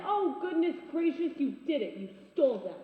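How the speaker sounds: loud scandalised gasp of words; exclaim, appalled; shocked exclamation. Acted. Realises friend stole the birds.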